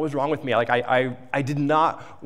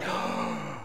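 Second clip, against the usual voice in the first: shaky gasp; 3 semitones lower, 9 dB quieter than usual. Retold or imitated. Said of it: "she's like".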